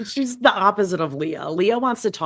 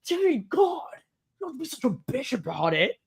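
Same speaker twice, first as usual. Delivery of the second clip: mock irritation; 8 semitones higher, 4 dB quieter than usual. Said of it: "And she's like".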